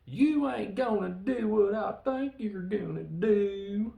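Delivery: high, loud, slow redneck holler; hammed-up redneck drawl. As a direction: holler it slowly like a stunned redneck. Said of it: "we get the redneck".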